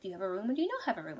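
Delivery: rapid-fire mock-impatient question; impatient pressing. Traveller presses hedging innkeepers for a room, impatient. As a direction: press for an answer, very fast.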